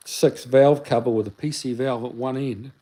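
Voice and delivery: talking through a yawn; words stretched by a yawn. Real, not acted. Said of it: "Oh, excuse me. Yawning".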